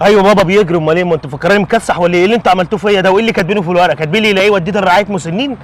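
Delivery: put-on loud, indignant father telling his children off; furious father's loud rebuke; angry scolding. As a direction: scold them for dumping you in a care home. Father scolds kids who abandoned him.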